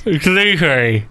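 slow, mushy through a mouthguard; wearing a mouthguard. Real, not acted. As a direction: force it out past a gum shield. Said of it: "He's got this gum shield in his mouth".

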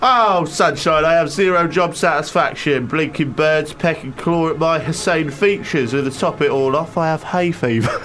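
long drawn-out opening, then a hammed-up moan; grumbling scarecrow. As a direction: complain bitterly in a put-on regional accent. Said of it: "I'm a Scouse Scarecrow".

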